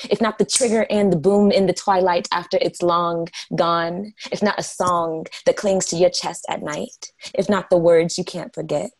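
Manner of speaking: rhythmic slam poetry delivery, phrases driven forward; spoken-word poem. Acted. Poet performing for an open-mic audience, spoken-word delivery. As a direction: recite it like a slam poet, building each list.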